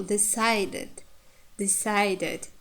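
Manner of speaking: "decided" with weight on the diphthong in the middle; "decided" given carefully as a stress example; stress on middle syllable. Shown as a demonstration. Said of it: "this syllable is stressed".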